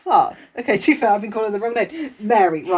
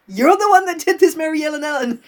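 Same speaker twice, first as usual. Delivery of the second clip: loud sharp voice; 4 semitones higher, 4 dB louder than usual. Acted. Accusing Mary in role.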